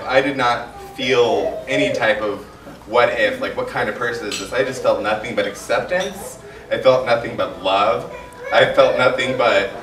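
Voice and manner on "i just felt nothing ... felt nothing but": teary. Real, not acted. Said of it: "get a little teary".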